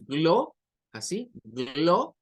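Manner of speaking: "glo" split off as a Spanish syllable, slowly. Shown as a demonstration. Teacher mimicking Spanish syllable habits. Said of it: "como si fuera español".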